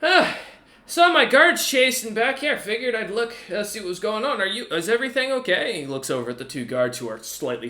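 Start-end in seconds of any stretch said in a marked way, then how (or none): 0.0-5.8 high, friendly kobold voice; casual check-in from the kobold captain. Acted. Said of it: "the captain comes around and looks at you and goes".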